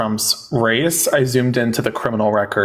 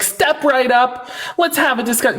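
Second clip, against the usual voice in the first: much higher, very slow barker call; high, slow hammed-up carnival barker; 9 semitones higher, slower than usual. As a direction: drag it out like a fairground barker luring a crowd. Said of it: "I feel like the carnival person who's like".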